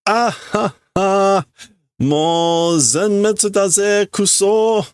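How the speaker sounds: high, cackling laugh into a defeated curse; manic laughing. Acted. Schoolgirl gives up on her exam with a crazed laugh. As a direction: laugh like she's cracking up over a failed test. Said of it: "So she's laughing and says".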